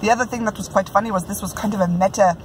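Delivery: a lightly put-on Scottish brogue, amateur attempt; Scottish accent, self-consciously hammed. Reviewing a book in a playful Scottish brogue. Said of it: "in my best Scottish brogue".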